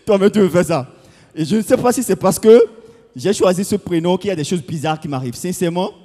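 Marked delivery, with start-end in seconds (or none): 0.0-0.9 laughing high, then speaking through the laugh. Real, not acted. Teasing a man in the crowd, laughing loudly.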